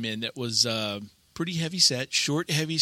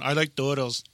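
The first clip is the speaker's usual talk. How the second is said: ringtone meme; 2 semitones lower than usual. Retold or imitated. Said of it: "my son's got that ringtone".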